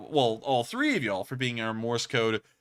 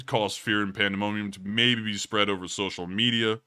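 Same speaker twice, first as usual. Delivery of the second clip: lower voice. Pretend. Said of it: "the low-tone voice that I've had".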